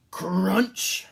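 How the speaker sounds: high, loud sound effect; loud crunch. A narrator's reading. Narrator voicing the sleigh crash, loud. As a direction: bang out the crash.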